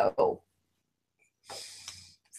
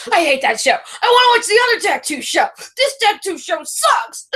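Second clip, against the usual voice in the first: higher, whining hate for the show; whiny complaint; 8 semitones higher than usual. Retold or imitated. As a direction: sulk like a fed-up husband. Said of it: "Daniel ... bitching".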